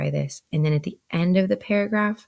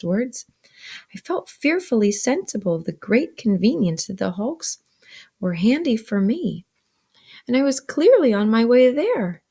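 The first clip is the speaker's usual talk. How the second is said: expressive, measured read-aloud; story narration; 5 semitones higher, 3 dB louder than usual. A narrator's reading. Older Pip recounts going upstairs to bed, narrating. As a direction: read the novel with animated emphasis.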